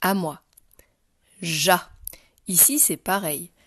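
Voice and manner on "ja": louder, isolated model of "Ja"; syllable read aloud. Shown as a demonstration. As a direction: read "Ja" clearly for a learner. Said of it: "ensuite je la lirai".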